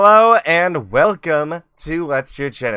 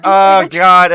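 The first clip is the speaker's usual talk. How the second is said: exasperated groan; 5 semitones higher, 12 dB louder than usual. Real, not acted. Embarrassed over muting blunder.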